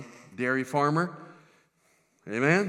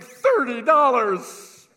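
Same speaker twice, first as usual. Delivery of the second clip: loud, high, drawn-out exclamation; mock triumph; 9 semitones higher, 8 dB louder, much slower than usual. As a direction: proclaim it like a fortune. Mock triumph at tiny paycheck.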